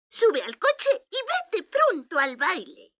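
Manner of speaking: put-on high, slow kindly old voice; sweet old lady. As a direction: gently hurry her along. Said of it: "dijo la viejecita".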